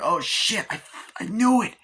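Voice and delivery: high, loud mock panicked squeal. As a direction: squeal it in fake terror. Panicked reaction to reveal.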